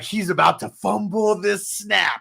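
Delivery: shouted high and slow; mock shout. Friend watching the game, yelling at the TV. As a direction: yell it at the screen, drawn out. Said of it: "I was like".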